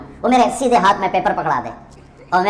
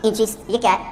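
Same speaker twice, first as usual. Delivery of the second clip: innocent; 6 dB quieter than usual. Retold or imitated. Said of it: "بڑے بھول پن میں کہتے ہیں".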